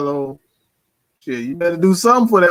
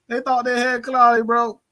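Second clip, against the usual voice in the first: amused mockery; 8 semitones higher than usual. Real, not acted. Repeats jab, recovering from laughter.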